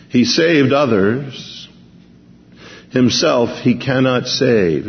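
mocking.

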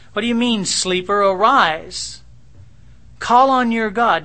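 loud urgent shout, rising in force; captain shouting. Retold or imitated. Ship captain shouting at sleeping Jonah to pray. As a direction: yell him awake in a storm. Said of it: "the captain came to him and said".

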